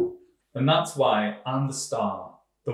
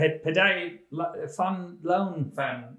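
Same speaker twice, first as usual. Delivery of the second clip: put-on stumbling, higher French-tinged accent; halting French accent; failed accent-free attempt; 4 semitones higher, slower than usual. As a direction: fumble for words while failing to drop the French accent. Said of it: "Do it without an accent".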